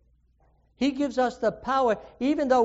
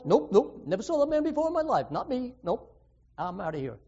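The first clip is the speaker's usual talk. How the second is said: hurried jittery "nope, nope" fading to a mutter; nervous rushed denial; 2 semitones higher, faster than usual. Acted. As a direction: deny it fast, like a man panicking. Peter nervously denies knowing Jesus.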